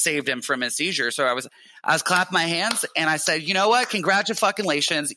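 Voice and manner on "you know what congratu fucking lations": higher-pitched sarcastic congratulations, slowing on the long word; mock congratulations. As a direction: congratulate them as if applauding an idiotic stunt. Sarcastically applauding friends who caused seizure.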